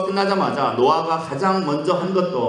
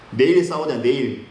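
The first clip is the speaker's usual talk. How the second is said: grasshopper stalling. Acted. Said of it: "메뚜기가 이렇게 얘기했습니다".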